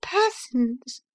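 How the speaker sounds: high, level, smug confirmation; cool repetition. Acted. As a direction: answer back calmly, just the word. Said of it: "replied Missus Briggs".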